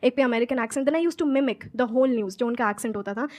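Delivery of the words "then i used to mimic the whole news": slow, deliberate English; each word placed with care; slow careful English. Real, not acted. Guest tells her story to the audience, slow careful English.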